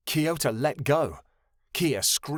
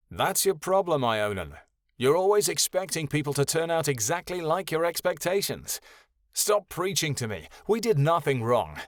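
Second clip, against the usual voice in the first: raised, heated protest; indignant, higher-pitched protest; 4 semitones higher than usual. Acted. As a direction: push back hard at him. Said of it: "Kyoto protested".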